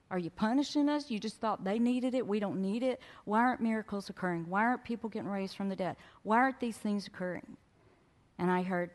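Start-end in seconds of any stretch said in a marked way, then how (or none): 0.1-7.6 higher, rapid-fire challenging questions; smartass challenge. Retold or imitated. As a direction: fire demanding questions at God. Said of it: "I can be a quote-unquote smartass".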